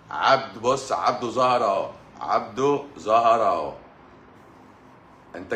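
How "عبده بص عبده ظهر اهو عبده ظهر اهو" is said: louder, thrilled announcing of his arrival; excited greeting. Real, not acted. Host loudly announcing Abdo's arrival to viewers. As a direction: cheer that Abdo showed up.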